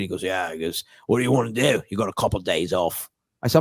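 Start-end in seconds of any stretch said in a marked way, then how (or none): 0.2-0.5 low, soft Australian reply; Australian accent. Retold or imitated. Australian comic answering on the phone, Australian accent. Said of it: "It's a good Australian accent". 1.1-3.1 easygoing Australian phone voice; Australian accent. Retold or imitated. Australian comic asking a visitor's plans, Australian accent. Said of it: "It's a good Australian accent".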